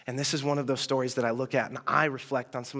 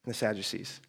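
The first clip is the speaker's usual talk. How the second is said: patient repeat; 4 semitones lower, 4 dB quieter than usual. Retold or imitated. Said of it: "he asks the question again".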